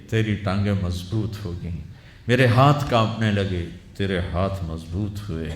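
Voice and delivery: a preacher voicing a wronged old father, lightly; grieving old father. Preacher voicing an aged father reproaching his grown son, lightly aggrieved.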